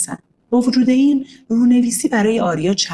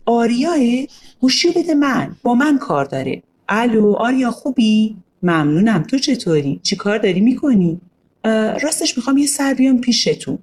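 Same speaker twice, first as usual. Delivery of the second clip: put-on girl on phone; 4 semitones higher than usual. Narrator voices girl Yalda.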